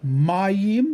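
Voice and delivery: MAYIM stressed on the first syllable, MA-yim. Shown as a demonstration. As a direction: put the emphasis on the MA of Mayim. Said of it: "emphasis on the first syllable".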